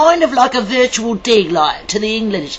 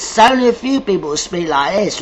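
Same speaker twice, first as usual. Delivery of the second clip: London English accent on show; 2 semitones lower than usual. Shown as a demonstration. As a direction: demonstrate how some English people speak. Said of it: "not everybody speaks like this".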